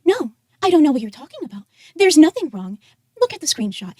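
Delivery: mildly mocking robotic imitation of someone else. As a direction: imitate a cringe AI voice, lightly. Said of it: "this cringe ass fucking A I voice".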